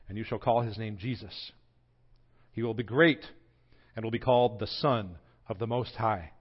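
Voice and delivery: measured, solemn Bible reading; unhurried reverent scripture read. Acted. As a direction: read it like a formal public reading of the Gospel. Reads Luke passage aloud.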